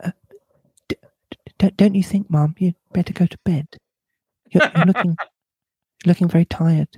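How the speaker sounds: put-on hesitant, stammering old servant; diffident. A narrator's reading. Old servant advises her mistress to rest, stammering diffidently. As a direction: stumble timidly over the suggestion. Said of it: "then added diffidently".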